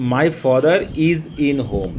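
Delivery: 1 slow read-out. Shown as a demonstration. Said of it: "হোমের আগে in হয় না".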